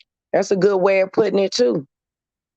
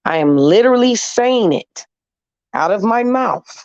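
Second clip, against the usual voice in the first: higher, emphatic demand to be heard; exasperated; 3 semitones higher, 3 dB louder than usual. Real, not acted. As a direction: press each phrase out in frustration. Exasperated at being misunderstood.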